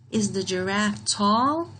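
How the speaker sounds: rising question read; question tune. Shown as a demonstration. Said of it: "So this is a question".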